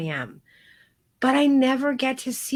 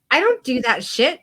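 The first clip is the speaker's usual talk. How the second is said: indignant denial; 3 semitones higher, 5 dB louder than usual. Retold or imitated. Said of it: "I was like".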